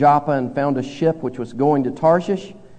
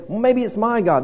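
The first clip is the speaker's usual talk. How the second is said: second sailor guessing; 7 semitones higher than usual. Retold or imitated. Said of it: "the other fella is saying".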